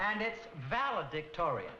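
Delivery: "valedictorian" said clearly with a V; careful pronunciation. Shown as a demonstration. Teacher modelling the word for students, careful pronunciation. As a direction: spell out "valedictorian" for the class. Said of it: "I was just coming to that".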